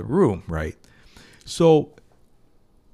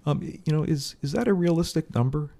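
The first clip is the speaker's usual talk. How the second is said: most sincere voice; 6 semitones higher than usual. Shown as a demonstration. Fundraiser checking a donor's comfort before leaving, most sincere voice. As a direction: ask it gently, in earnest. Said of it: "with my most sincere voice".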